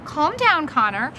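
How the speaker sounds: mildly reassuring; gently. Acted. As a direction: soothe an upset boy. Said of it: "Mom said gently".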